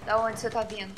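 ordinary talk

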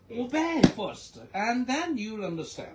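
OBEY punched loud and drawn out; slow, forceful hit on "Obey first"; emphatic exhortation. Real, not acted. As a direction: drive home "Obey" like a preacher. Preacher driving the lesson home.

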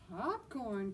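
delighted discovery; cried out. Acted. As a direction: shout the happy surprise. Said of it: "cried Dexter".

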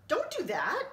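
high, loud alarmed warning; alarmed alien cry. Acted. Alien shouts a warning to the narrator, high and loud alarm. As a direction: shout to stop him opening the door. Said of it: "said a green globby person".

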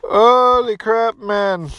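real astonishment; stunned. Real, not acted. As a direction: let the disbelief stretch it out. Stunned by the damage.

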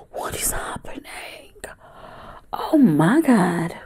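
breathless tearful whisper, slow; crying. Real, not acted. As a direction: caught off guard by her own tears. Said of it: "first time I cried".

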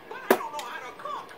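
high, loud whiny cartoon voice; silly cartoon voice. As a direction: squeak it like a cartoon sidekick. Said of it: "person with a silly cartoon voice".

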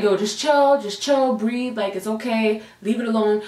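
put-on boyfriend gently calming his angry partner; calming someone down. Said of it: "Cameron's calming me down".

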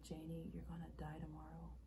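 soft, hushed quote; understated, grave delivery; subdued retelling. Acted. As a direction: quote the stranger quietly. Acted monologue, subdued first take.

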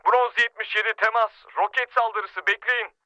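urgent. Acted. Radio call under rocket attack.

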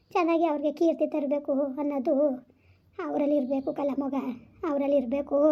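soft, soothing parental counsel; gentle consoling. Acted. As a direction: console your child quietly and patiently. Consoling a grieving child.

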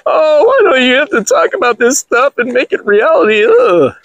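high, whiny mock female voice; mocking whiny woman. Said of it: "you send me emails".

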